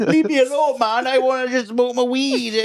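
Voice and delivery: high, slow stoned Welsh valleys voice; lazy stoner in a Welsh valleys accent. Pretend. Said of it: "the valleys accent".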